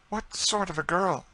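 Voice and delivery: high-pitched eager question; keen, excited lady's question. A narrator's reading. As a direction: ask eagerly, voice leaping up. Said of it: "said Madame de Thou eagerly".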